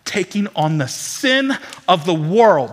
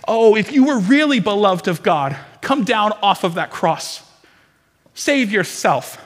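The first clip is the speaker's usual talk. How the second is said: mocking crowd; 2 semitones higher, 8 dB louder than usual. Crowd mocking Jesus on the cross, loud jeering taunt. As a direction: sneer it out like the mob at the cross. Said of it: "they cry out".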